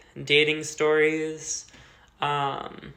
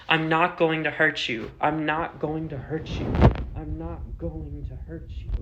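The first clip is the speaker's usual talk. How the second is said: more intense each time. Retold or imitated. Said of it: "it's getting more intense with each time".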